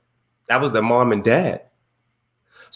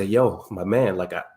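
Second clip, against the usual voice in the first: soft apology; 2 semitones lower, 4 dB quieter than usual. Retold or imitated. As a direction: ease it down like a tender dad. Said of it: "I just had to say".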